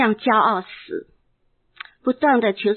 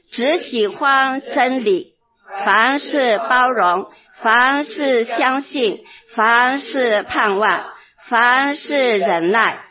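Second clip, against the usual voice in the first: reading scripture together; slower than usual. Real, not acted. Pastor leading the church in reading 1 Corinthians 13, slow and solemn. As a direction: read each phrase slowly and firmly, leading the room. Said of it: "我们一起来读".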